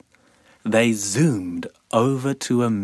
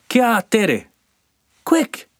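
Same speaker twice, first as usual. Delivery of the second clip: very high, urgent tiny voice; squeaky sandfly cry; 11 semitones higher, 4 dB louder than usual. Acted. Namu urging Sandy on, very high squeaky cry. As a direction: hurry them on like a buzzing sandfly. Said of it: "cried Namu".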